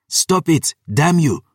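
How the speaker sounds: high-pitched angry cry; desperate outburst. A narrator's reading. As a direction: cry out to make him stop. Desperate plea during lovers' quarrel.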